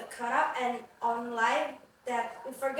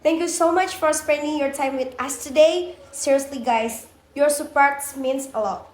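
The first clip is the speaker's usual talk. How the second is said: loud; 10 dB louder than usual. Real, not acted. Loud thanks to listeners.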